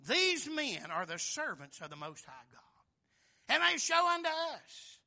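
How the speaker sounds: slow proclamation rising high and loud. Retold or imitated. Preacher imitating the damsel crying after Paul, loud voice. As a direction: build to a ringing, high cry. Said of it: "in a loud voice".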